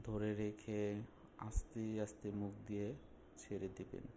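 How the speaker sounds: measured instructions with long pauses; unhurried meditation guide, phrase by phrase; guided relaxation. Acted. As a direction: calmly guide the listener into a breathing exercise.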